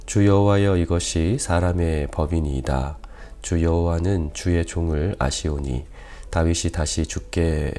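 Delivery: measured, solemn Bible reading, firm on each address to God; scripture reading. Real, not acted. Pastor reads David's prayer to the congregation, formal scripture reading. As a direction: read the passage out to a congregation.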